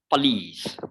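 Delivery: police with a short schwa start; police, British way. Shown as a demonstration. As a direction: say police as puh-leez. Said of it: "we pronounce it as police".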